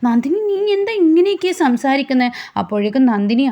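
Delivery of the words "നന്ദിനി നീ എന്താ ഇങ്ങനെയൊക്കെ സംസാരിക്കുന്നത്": pitched up in disbelief; stunned, voice jumping high; shocked. A narrator's reading. Surya shocked at his drunk wife's talk.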